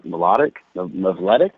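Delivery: halting, questioning stabs at "Melodic" and "Mevletic"; unsure pronunciation. Real, not acted. Trying the composer's last name, unsure pronunciation of "Melodic", "Mevletic". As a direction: stumble on the M, then guess "Mevletic" with a question. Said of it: "I can't pronounce his last name correctly".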